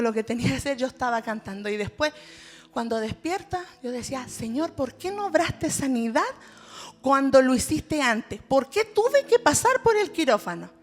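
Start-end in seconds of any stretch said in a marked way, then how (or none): 4.3-10.7 retold protest. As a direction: question God with rising insistence. Retold questioning of God.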